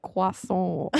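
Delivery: Croissant in a hammed-up French accent; bad French accent. Shown as a demonstration. Host mocking her own French, clumsy French accent. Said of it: "That close is terrible".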